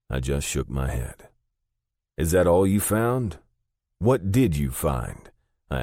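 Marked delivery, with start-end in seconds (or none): 2.2-5.3 alarmed. A narrator's reading. Alarmed questions to father.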